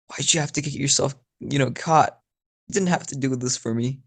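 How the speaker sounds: a hint of a little sister; little girl voice. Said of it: "a little girl accent".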